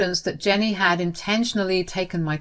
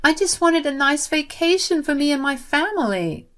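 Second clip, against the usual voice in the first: tearful; 10 semitones higher than usual. Acted. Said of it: "She cried and said".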